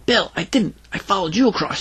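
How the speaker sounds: put-on high girlish voice; lightly voiced child's explanation; little girl explaining. A narrator's reading. Greta defends herself to Bill, high little-girl voice. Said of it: "she explained".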